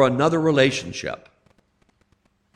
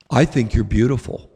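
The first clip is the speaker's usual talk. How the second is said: lower, tender reply; gentle father; 6 semitones lower than usual. Retold or imitated. Father answering his yelling daughter, lower and tender. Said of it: "he looked at her and says".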